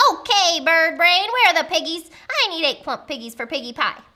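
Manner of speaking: loud, bossy witch voice; brusque witchy interrogation; demanding witch. Acted. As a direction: confront the bird impatiently.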